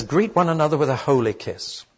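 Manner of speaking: holy lifted and leaned on; the word holy given the weight; stress on holy. Shown as a demonstration. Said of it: "I emphasize the word holy".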